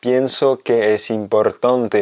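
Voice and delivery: slow, careful, ending on a fall; slow repeat. Shown as a demonstration. Teacher repeating the example slowly with a final fall. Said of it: "deux exemples très précis".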